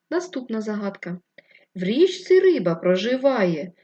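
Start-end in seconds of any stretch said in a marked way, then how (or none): 1.7-3.7 louder, rhythmic riddle verse, slowing at the end; riddle recital. Acted. Teacher to first graders, reading a riddle in a sing-song rhythm. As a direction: recite the rhyme like a playful riddle for children.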